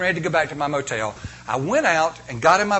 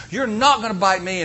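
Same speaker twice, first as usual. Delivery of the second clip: raised, insistent yell; mild mock yell, higher; retold scream at dog; 5 semitones higher than usual. Preacher retelling how he yelled at a dog. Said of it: "I'm screaming at him".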